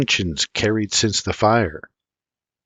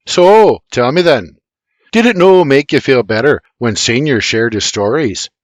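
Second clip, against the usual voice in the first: Irish man voice; 3 semitones higher, 6 dB louder than usual. Acted. James Junior character voice.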